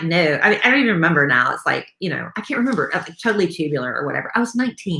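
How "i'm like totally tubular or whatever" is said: put-on Valley Girl accent. Shown as a demonstration. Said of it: "Give us some".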